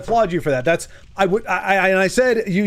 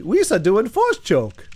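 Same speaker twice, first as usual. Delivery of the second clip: goofy alien voice; 4 semitones higher, slower than usual. Acted. Goofy Star Wars alien voice.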